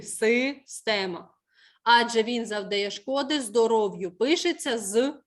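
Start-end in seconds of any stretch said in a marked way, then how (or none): 0.0-1.3 «Система» very slowly, syllable by syllable, falling; clear И sound. Shown as a demonstration. Teacher confirms spelling for pupil, slow clear И in «Система». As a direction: stretch out «Система» with a distinct И. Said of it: "буква".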